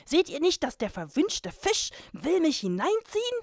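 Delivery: high, loud panicky dwarf cry; dwarf shouting in panic, pitched high; frantic dwarf. Acted. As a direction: shriek like a little man being dragged off. Dwarf panicking, pulled by fish.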